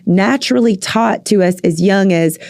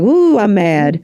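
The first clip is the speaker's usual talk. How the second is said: surprised ooh; slower than usual. Shown as a demonstration. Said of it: "So to be able to be like".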